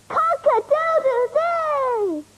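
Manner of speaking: crowing like a cockerel; slow drawn-out rooster call. Acted. Child imitates the cockerel.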